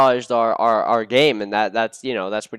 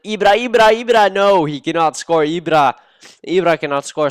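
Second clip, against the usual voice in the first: pleading Ibra, Ibra, much higher and louder; frantic shout; 5 semitones higher, 5 dB louder than usual. Real, not acted. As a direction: yell at the screen so Ibra cannot score. Desperate goalmouth scramble.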